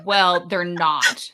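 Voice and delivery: dry retort. Retold or imitated. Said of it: "I was like".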